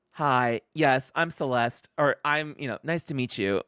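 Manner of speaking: Celeste. Retold or imitated. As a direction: imitate a polite TV-movie introduction. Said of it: "thick accent to, like".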